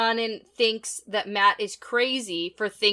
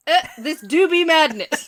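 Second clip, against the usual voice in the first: louder, higher pirate voice through a laugh; 6 semitones higher, 6 dB louder than usual. Pretend. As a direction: ham up the pirate captain. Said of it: "No, say it like a pirate".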